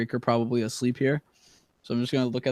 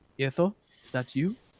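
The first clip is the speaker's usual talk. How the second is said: hushed, soft half whisper; 2 semitones higher, 6 dB quieter than usual. Speaking in character at a window: whisper. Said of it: "sort of whisper and be like".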